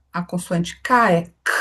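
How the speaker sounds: K said as a bare consonant, no vowel after; teacher demo of the pure K sound. Shown as a demonstration. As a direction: clip the K short with no added vowel. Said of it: "treinar a pronúncia pura das consoantes".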